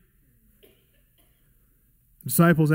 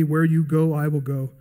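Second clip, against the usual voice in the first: tender vow. Acted. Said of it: "what Ruth told Naomi".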